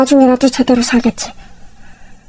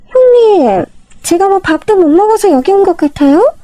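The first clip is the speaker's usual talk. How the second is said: higher, indignant younger sister-in-law; offended sister-in-law; 5 semitones higher than usual. Acted. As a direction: bristle at the offer of a free meal.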